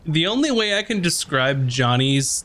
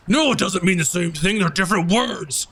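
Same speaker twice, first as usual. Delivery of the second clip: Zar; 5 semitones higher than usual. Acted. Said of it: "uh, Zar goes".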